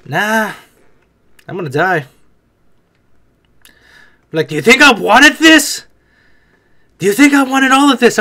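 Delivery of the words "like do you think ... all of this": exasperated outburst. Acted. Voicing exasperated character.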